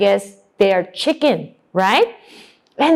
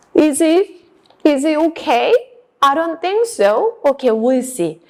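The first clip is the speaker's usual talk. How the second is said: ordinary talk, nothing marked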